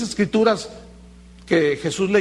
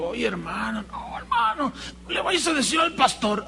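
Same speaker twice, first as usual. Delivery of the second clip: high, rising to a frantic shout; desperate pleading; 4 semitones higher, 4 dB quieter than usual. Retold or imitated. Caught brother begging the pastor to keep quiet, frantic high plea. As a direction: beg him not to tell anyone.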